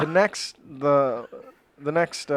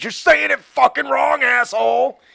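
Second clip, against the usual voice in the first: high, loud, furious, angry screaming. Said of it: "screaming at".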